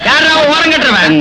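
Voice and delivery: loud, slow, drawn-out challenge; bossy calling out. Acted. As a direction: bellow to find out who did it. Village boss calls out. (அதிகாரமாகக் கத்திக் கேட்டல்)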